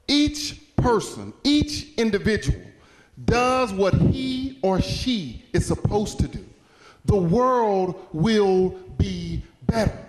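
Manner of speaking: slow, deliberate oratory with spaced words; emphatic moral. Real, not acted. Speaker giving the audience the moral, slow and emphatic. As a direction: drive it home word by word, slowly.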